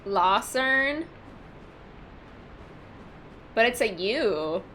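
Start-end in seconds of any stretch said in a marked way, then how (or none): 0.1-1.1 "Lucerne" tried as lah-SERN, rising; questioning mispronunciation. Shown as a demonstration. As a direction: open the first vowel of "Lucerne" to AH, as a question. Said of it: "supposed to pronounce the dang thing".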